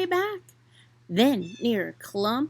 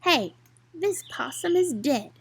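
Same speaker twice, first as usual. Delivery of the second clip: a touch of a snarling cat; gruff mild snarl; lightly snarled by the swamp cat; 4 semitones higher than usual. Acted. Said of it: "it snarled".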